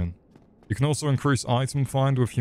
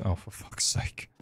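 exasperated; 2 semitones lower, 8 dB quieter than usual. Real, not acted. Exasperated at chat.

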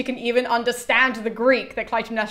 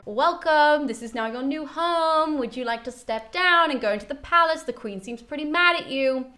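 coaxing; 4 semitones higher than usual. Retold or imitated. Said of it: "try and encourage her to get out".

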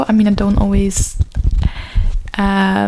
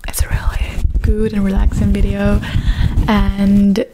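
whispering. Acted. Whispered asmr ramble.

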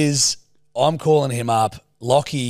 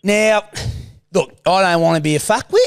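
Stephen's voice. Acted. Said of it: "it's Stephen's voice".

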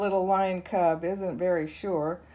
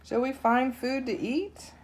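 roaring; 7 semitones higher than usual. Acted. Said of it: "roars the lion cub".

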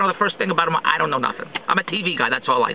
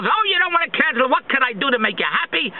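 a higher, over-eager customer-service voice; mock eager rep; 5 semitones higher than usual. Rep coaxing an unhappy customer to stay, lightly mocking eager voice. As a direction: play the rep pleading, a touch syrupy. Voicing the rep talking him out of cancelling.

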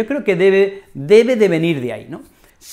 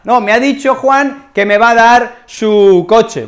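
naive friend; 5 semitones higher, 5 dB louder, slower than usual. Acted. Acts a naive friend's claim.

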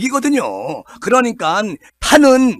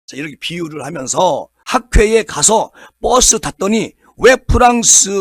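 ordinary talk, nothing marked

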